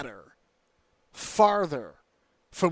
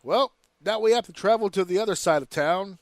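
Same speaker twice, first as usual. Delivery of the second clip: mock announcer shout; 4 dB louder than usual.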